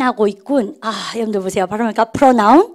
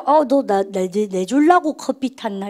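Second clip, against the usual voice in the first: touched; 3 semitones lower, slower than usual. Acted. A mild touched friend, moved by coffee made for them. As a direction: act deeply moved someone made you coffee. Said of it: "이렇게 감동 먹어보세요".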